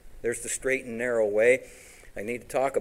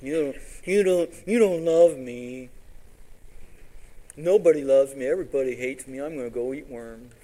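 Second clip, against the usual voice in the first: put-on whiny child; 5 dB louder than usual. Preacher mimics a chastened child sulking to his parents. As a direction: play a sulking kid who feels unloved. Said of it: "And it's like".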